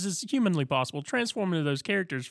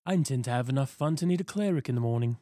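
a distinct character voice for a rogue-ish party lover; Cash's cue phrase voice. Acted. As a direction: say it as the recurring PC Cash. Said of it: "my cue phrase for Cash".

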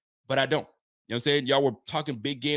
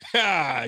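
dramatic ha; 3 semitones higher, 5 dB louder than usual. Real, not acted. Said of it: "I pause for the dramatic effect".

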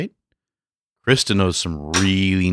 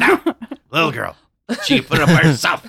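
laughing, higher and fast; 7 semitones higher, 4 dB louder than usual. Real, not acted. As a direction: giggle through the words. Playing along, laughing.

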